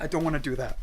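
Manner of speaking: soft, offhand mimicked refusal; imitated refusal. Repeating director's refusal exactly, softly dismissive. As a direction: quietly brush the idea off. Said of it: "That's exactly how he said it".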